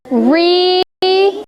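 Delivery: "Restart" with each syllable opened wide; modelling the jaw drops; syllables marked. Shown as a demonstration. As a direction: drop the jaw on both parts of "Restart". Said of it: "count how many times your mouth opens".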